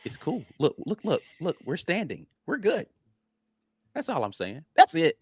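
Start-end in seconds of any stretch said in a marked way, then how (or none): 0.0-2.9 softer, gentle calming repeated heys; calm the panicked fans down softly; soothing hush. Retold or imitated. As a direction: fan base hushed gently like a scared child. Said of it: "all I'm trying to tell our fan base".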